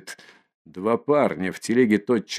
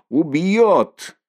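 alarmed cry; 7 semitones higher, 4 dB louder than usual. Acted. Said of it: "кричат кругом".

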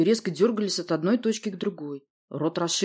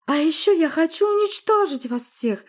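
high, loud creaky witch; creaking witch; 11 semitones higher, 6 dB louder than usual. A narrator's reading. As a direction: screech the threat like a witch. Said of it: "проскрипела колдунья".

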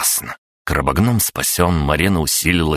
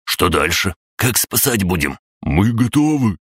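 higher, eager chirpy voices; eager to help; eager little spirits; 5 semitones higher than usual. Acted.

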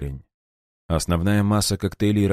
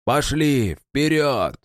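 high shouted charge; shouted command; 8 semitones higher, much slower than usual. A narrator's reading. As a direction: drive them forward. Sergeant ordering charge.

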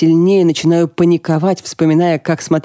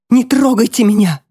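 sharp high shout of refusal; 7 semitones higher than usual. Acted. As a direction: yell it, pushing away help. Grieving widow pushes doctor away.

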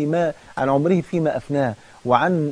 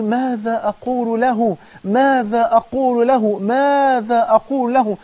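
anguished cry; 5 semitones higher, slower than usual. Acted. Burning friend crying out.

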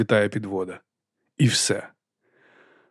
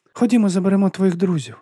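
higher, otherworldly measured voice; Death's voice; 8 semitones higher than usual. A narrator's reading. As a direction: speak as Death, calm and final. Death speaks to Padi.

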